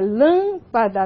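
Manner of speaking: "lâmpada" with a closed, nasalised first â. Shown as a demonstration. Teacher showing vowel differences to students, "lâmpada" with closed â. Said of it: "nós temos essas diferenças também".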